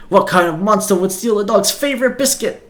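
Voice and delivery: scandalized over a stolen biscuit; outraged dog professor. Acted.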